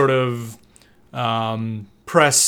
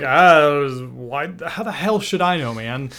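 exasperated protest; 3 semitones higher than usual. Retold or imitated. Acted exasperated reply on phone.

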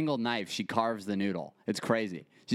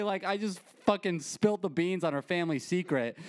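ordinary delivery

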